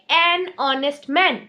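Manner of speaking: slow, "an honest man" drawn out; slow example. Shown as a demonstration. Teacher slowly repeating "an honest man". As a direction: say it slowly and clearly. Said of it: "इसीलिए हम बोलेंगे".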